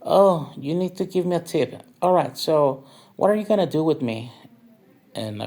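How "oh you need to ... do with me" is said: lightly raised, quicker voice for the dancer; mock dancer voice. The narrator quotes a club dancer asking for a tip, mock higher voice. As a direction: imitate the tipping lady a bit higher and quicker. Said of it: "And she was like".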